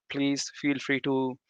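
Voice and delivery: ordinary delivery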